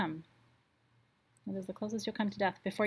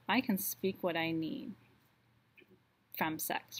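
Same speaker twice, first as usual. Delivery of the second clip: guided meditation. Acted. Host leads the full moon circle in meditation. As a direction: guide the group gently through each affirmation.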